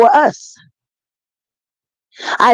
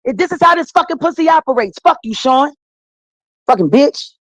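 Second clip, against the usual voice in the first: heated, raised pitch, cursing at Jay-Z; furious rant; 3 semitones higher than usual. Real, not acted. Talk guest cursing out Jay-Z, furious rant. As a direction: tear into him with real anger.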